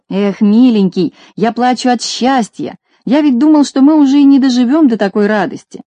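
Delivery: tearful happiness breaking through; a villager weeps for joy; crying with joy. Acted. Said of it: "залился слезами".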